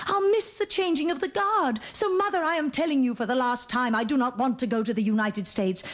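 put-on high, stubborn little girl; childish insistence. A stubborn girl telling her mother she won't go, high and insistent. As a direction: stamp your foot in a high child voice.

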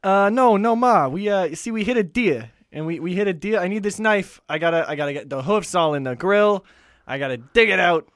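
lightly voiced rambling excuse to ma; a hint of a flustered Pesci stalling; Joe Pesci impression. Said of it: "we'll do Joe Pesci".

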